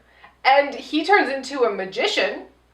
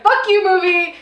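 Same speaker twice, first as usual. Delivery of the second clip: loud, higher mock outrage at the film; mock outburst; 8 semitones higher, 5 dB louder than usual. Furious at the movie she'd throw popcorn at the screen. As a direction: yell it at the screen in fake fury.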